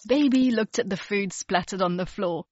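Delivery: ordinary delivery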